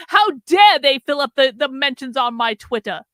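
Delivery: loud burst of mock indignation; mock outrage. Commentator quoting Tim back at him, loud mock outrage. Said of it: "But then you're like".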